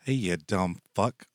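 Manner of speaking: slow deadpan insult to a pet; slow mock-rude greeting to a cat; affectionate insult. Shown as a demonstration. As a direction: drawl it fondly at the cat. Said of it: "what you say to your cat".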